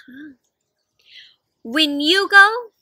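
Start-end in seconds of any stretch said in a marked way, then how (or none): 1.6-2.7 slow breathy whisper of a love note; hushed and slow, for one listener only. Shown as a demonstration. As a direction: whisper it like a secret. Whispering part of the letter.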